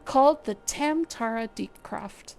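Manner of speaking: lightly voiced stately guild leader, measured; brief the adventurers with courteous gravity; Lewin, formal commander. Streamer voicing the guild leader's mission briefing, lightly formal. Reading NPC Lewin's lines.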